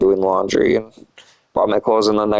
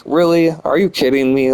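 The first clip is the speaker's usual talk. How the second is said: incredulous retort; 5 semitones higher than usual. Retold or imitated. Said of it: "I lost my cool".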